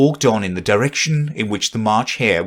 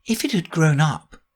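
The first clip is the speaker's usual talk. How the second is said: higher, lightly voiced Alice; Alice musing to herself; 5 semitones higher than usual. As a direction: think aloud as Alice, pitched up. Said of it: "she said to herself".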